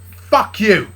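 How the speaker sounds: loud, high curse; angry curse. Acted. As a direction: spit it at him as he leaves. Blitz storms out.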